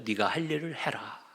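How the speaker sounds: quiet, composed retold reply; calm. Jesus speaking to Judas the betrayer, calm. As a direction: say it softly and evenly, without reproach. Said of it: "예수님은 차분하게 얘기하셨어요".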